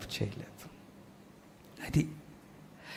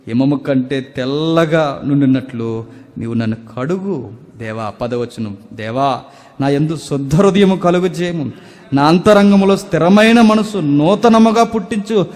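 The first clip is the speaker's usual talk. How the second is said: louder, raised preaching cry; fervent preaching; 2 semitones higher, 7 dB louder than usual. Acted. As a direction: proclaim the psalm to the whole church. Preaching the psalm verse.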